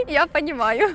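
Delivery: trying again while giggling; suppressed laughter. Real, not acted. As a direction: hold the laugh in, barely. Retries phrase between laughs. (сдерживая смех)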